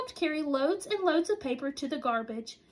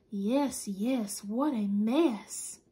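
slow dismayed Papa; 4 semitones lower, much slower than usual. Acted. Papa voiced in story.

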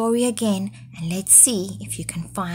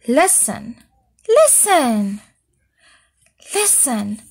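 crying out; 5 semitones higher than usual. Acted. Goat crying out again in panic, higher. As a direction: call out more and more frightened. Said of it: "cried Goat again".

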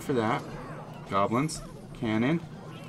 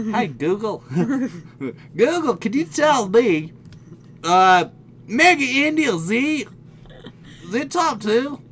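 loud, high, slow address to a voice assistant; over-enunciate playfully for the machine; hammed-up slow question, pitched high; put-on accent for Google; 9 semitones higher, 6 dB louder, slower than usual. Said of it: "Do I need to do my accent".

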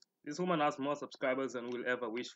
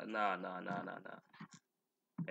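drawn-out nah; 7 semitones lower, 8 dB quieter, much slower than usual. Real, not acted. Refusing to read more.

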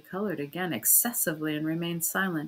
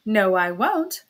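a sharp refusal, somewhat louder; cried out; 7 dB louder, slower than usual. Acted. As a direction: snap back a firm no, raised voice. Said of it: "cried Annabella".

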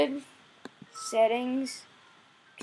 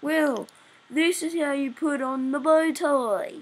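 mock exasperated yell, a bit higher; mildly shouted impression of frustrated viewers; imitating screaming viewers; 3 semitones higher, 4 dB louder than usual. Viewers yelling game advice at the player, mock screaming. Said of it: "probably screaming at me going".

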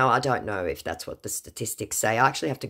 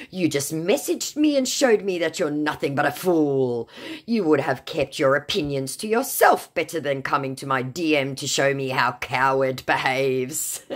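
triggered; 3 semitones higher than usual. Retold or imitated. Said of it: "said our very triggered and very cowardly scammer".

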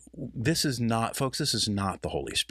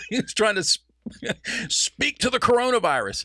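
high, loud words breaking into laughter; can't hold back the laugh while telling it; laughing through words; 13 semitones higher, 5 dB louder than usual. Real, not acted. Laughing at the Copeland story.

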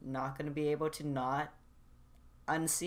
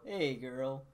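softer greeting from the throat; throat voice line; 5 dB quieter than usual. Shown as a demonstration. Voice actor repeats the greeting in the lazy throat voice. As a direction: drop the support and let it fall softer. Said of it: "why am I saying these voice lines".

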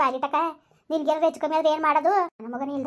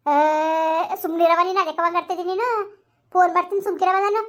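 louder, half-crying hush; tearful scolding; 3 semitones higher, 4 dB louder than usual. Acted. Scolding the wailer, crying heard.

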